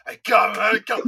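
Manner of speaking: high, loud play-acted pleading; mock-urgent hushing of a crying kid; coaxing older brother. Older brother to crying younger one, pleading. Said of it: "you're like".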